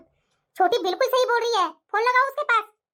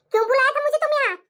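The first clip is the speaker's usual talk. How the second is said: cross, confrontational question; angry demand; 4 dB louder, faster than usual. Acted. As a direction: demand an answer from the blackmailer. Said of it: "आते के साथ इतना गुस्सा". (गुस्से में सवाल करते हुए)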